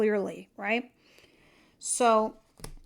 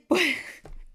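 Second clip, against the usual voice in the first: high burst of real laughter; laughing; 7 semitones higher than usual. Real, not acted. Reader amused by her own accent, laughing. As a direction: crack up mid-sentence. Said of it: "I gotta laugh".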